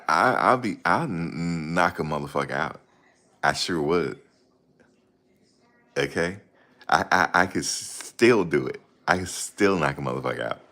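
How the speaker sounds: stammering boxer threat; halting, repeated "I" before the boast; light mimicry of a slurred fighter; imitating James Toney. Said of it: "He don't talk as bad".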